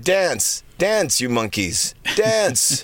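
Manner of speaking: high, drawn-out mock command; mock taskmaster. Mock promoter ordering the opening band to dance. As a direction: lord it over the band, hammed up. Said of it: "they'd be like".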